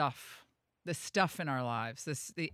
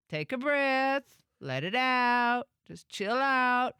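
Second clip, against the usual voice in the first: slow calming voice; 7 semitones higher, 4 dB louder, slower than usual. Shown as a demonstration. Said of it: "when you're out of control".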